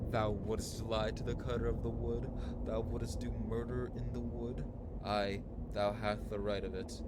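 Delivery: hammed-up mock Shakespearean tree talk; archaic fairy-tale voices. Voicing the woodcutter and tree in archaic speech. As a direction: play both woodcutter and trees in old speech. Voicing trees in a dream quest.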